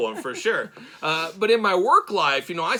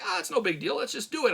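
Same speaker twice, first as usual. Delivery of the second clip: high-pitched mock of carefree kids; kids' voice; 8 semitones higher, 3 dB quieter than usual. Dad imitating his kids shrugging off the cost, kids' voice. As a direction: pitch it up like a breezy child. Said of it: "the kids just say".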